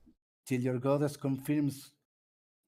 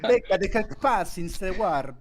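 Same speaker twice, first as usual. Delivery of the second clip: put-on reading in a Spanish accent; 6 semitones higher, 9 dB louder than usual. Reads with foreign accent.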